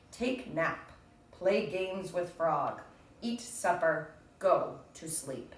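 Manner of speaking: slow, deliberate list reading; read-aloud list. Acted. Teacher reading Toad's to-do list to children, slow and deliberate. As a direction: savour each item, slowly.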